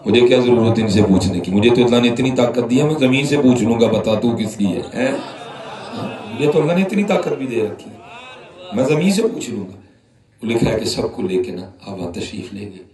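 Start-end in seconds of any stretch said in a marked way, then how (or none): 0.1-9.8 majestic wrath. Retold or imitated. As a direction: thunder it as a prophet in holy anger. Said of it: "جلال میں آ گئے". (جلال بھری گرجدار آواز)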